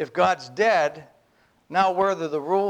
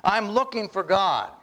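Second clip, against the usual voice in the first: a hint of the madman calling out, raised; madman's cry; 6 semitones higher than usual. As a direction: voice the madman searching. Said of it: "this is Nietzsche's writing".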